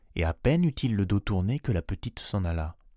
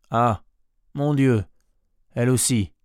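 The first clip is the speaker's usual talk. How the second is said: stupefied cry; 3 semitones higher, 5 dB louder than usual. A narrator's reading. Goat's owner learns she wants to leave, stupefied cry. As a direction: cry out in astonished disbelief. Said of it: "cria monsieur Seguin stupéfait".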